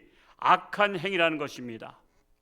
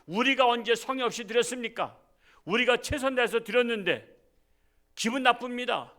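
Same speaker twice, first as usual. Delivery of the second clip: higher, sulky protest; indignant subordinate; 6 semitones higher than usual. Retold or imitated. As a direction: talk back to the boss, offended. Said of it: "그랬더니".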